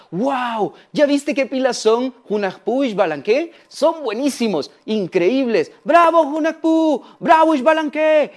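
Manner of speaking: high-pitched impressed onlookers; excited fans rising to a high, stretched bravo; admiring crowd. Acted. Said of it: "toda la gente los admiraba".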